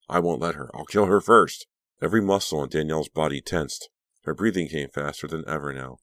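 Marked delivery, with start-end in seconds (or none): 0.1-1.7 louder, rising to a defiant peak; fierce threat. A narrator's reading. Patient vows to beat her rival, fierce and defiant. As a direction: build to a forceful vow.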